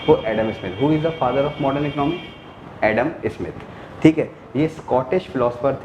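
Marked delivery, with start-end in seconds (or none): 0.8-2.8 teacher asks the class a quiz question, slowly. Shown as a demonstration. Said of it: "teacher quizzes class slowly".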